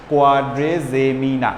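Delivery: কোয়াড্রেজেমিনা spoken slowly, syllables clear; slow pronunciation. Shown as a demonstration. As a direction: ease through কোয়াড্রেজেমিনা slowly. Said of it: "জেমিনা আর কি". (ধীর স্পষ্ট উচ্চারণ)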